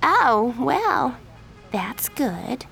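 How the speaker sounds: fake relief. A narrator's reading. Miranda feigns relief.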